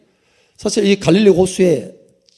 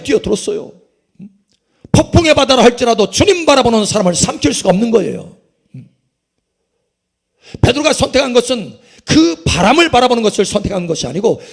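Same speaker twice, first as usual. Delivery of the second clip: raised, emphatic sermon delivery; fervent preaching; 3 semitones higher, 4 dB louder than usual. Real, not acted. Preacher proclaiming God's power over the stormy sea, fervent preaching. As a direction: drive each phrase home to the congregation.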